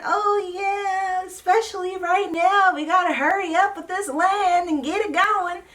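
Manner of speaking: high, mock-sweet imitation of Janelle. Vlogger mimicking Janelle's land excuse, high mock-sweet voice.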